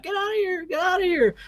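shrill panicked shriek, pitched very high; retold panicked screaming. Family in the car screams at the parked saucer, panicked high shriek. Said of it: "were all screaming".

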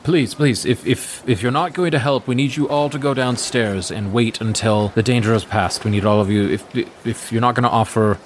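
hurried, stammering mild plea; a touch flustered guard; pleading guard. Acted. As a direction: beg them to go downstairs.

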